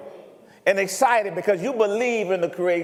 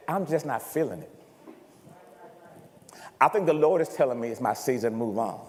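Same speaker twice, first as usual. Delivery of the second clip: mock excuse; 9 semitones lower, 5 dB quieter, faster than usual. Worker excusing quitting, mock voice.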